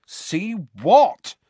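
puzzled Ron. Acted. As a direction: blank puzzled question. Ron blank.

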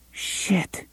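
breathy unvoiced whisper. A narrator's reading. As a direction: whisper it under your breath. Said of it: "Jake whispered".

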